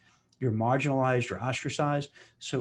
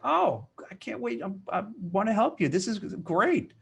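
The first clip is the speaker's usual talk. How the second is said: higher, eager, overdone delight; fake enthusiasm; 8 semitones higher, 4 dB louder than usual. To the boss about a dreaded assignment, gushing fake enthusiasm. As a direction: gush as if thrilled, slowing on the last words. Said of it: "say it like you really mean it".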